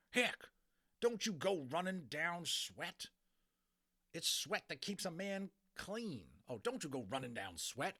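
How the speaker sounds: high, slow cowboy drawl; lecturing old cowboy; indignant cowboy. Acted. Boone defends sweat.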